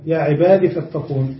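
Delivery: no long ee at the end of عبادي; ya dropped. Shown as a demonstration. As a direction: say عبادي as ibaadi with a short final i. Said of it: "حذفت الياء".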